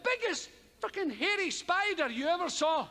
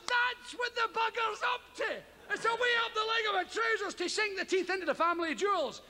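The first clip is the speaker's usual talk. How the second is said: alarmed thought; 8 semitones higher than usual. Retold or imitated. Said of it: "I thought".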